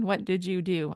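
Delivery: plain, slightly formal question; even-pitched, falling question. Shown as a demonstration. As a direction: ask it properly, without chattiness. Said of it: "It's a little bit more formal".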